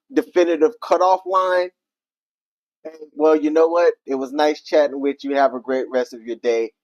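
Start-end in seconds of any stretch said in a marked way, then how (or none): 3.1-6.7 polite brush-off. Retold or imitated. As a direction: imitate a calm, polite goodbye. Models a polite, definitive cutoff.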